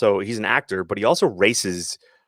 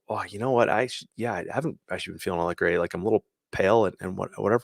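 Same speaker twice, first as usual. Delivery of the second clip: mock sickly reply; 2 semitones lower, 7 dB quieter, faster than usual. Friend admits feeling unwell.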